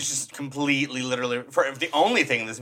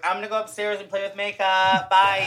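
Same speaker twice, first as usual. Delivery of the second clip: put-on carefree girl; 4 semitones higher than usual. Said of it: "and she's like".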